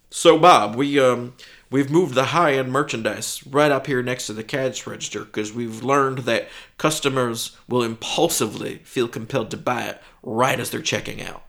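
loud, upbeat manager pitch; store manager. Acted. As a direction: sell it like a boss.

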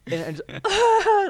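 loud, very high held squeal; high drawn-out squeal. Retold or imitated. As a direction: let out a long reenacted squeal. Mimics bursting out at the news.

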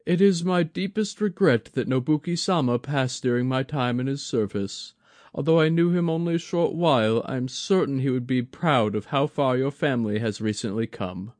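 lightly voiced humble elder; a hint of a courteous old advisor; Maezawa, old man. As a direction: sound deferential and measured.

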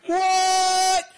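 high, loud shocked "What?"; loud, high-pitched mock disbelief; baffled what. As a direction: yelp it in disbelief. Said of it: "And I'm like".

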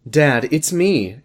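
slow, flat misread of "Dad, it's me"; wrong read. Acted. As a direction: drag out "Dad, it's me" slowly. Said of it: "Can you read that correctly?".

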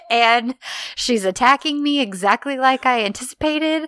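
lightly acted sarcastic triumph. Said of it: "It's so sarcastic".

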